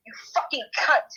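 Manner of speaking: real yelled insult, loud and raw; loud furious yelling; furious shout. Real, not acted. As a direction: scream it at her in full rage. Furious insult at rival on stream.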